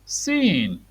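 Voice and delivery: put-on whispered word for a child. Shown as a demonstration. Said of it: "modelling word for a child".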